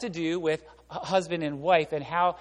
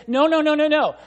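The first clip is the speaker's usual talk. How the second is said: firm no; 7 semitones higher, 7 dB louder than usual. Retold or imitated. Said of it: "And he says".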